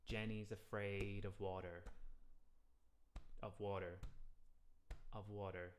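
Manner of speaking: slow, water anticipated before three; slow rhythm demo. Shown as a demonstration. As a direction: sing water just before the beat. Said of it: "make sure your water is before three".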